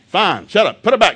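fed-up dad shouting orders; mock exasperated dad. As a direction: bark it like a fed-up father in the cereal aisle. Dad snapping at kids in aisle.

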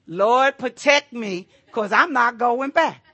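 loud stubborn plea to the Lord. Retold or imitated. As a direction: beg loudly and refuse to budge. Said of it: "I jumped to the mercy side of God".

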